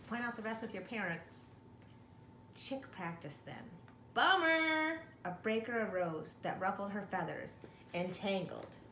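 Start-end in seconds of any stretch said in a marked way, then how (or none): 4.1-5.0 loud, high cry of dismay; higher, louder bummer; exclaimed. A narrator's reading. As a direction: belt out the letdown like a surfer. Narrator exclaims at wipeout.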